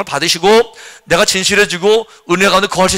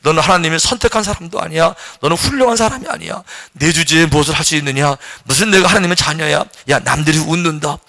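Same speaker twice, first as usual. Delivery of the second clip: accusing voice; 3 semitones lower than usual. Retold or imitated. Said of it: "이렇게 비난할 수 있어".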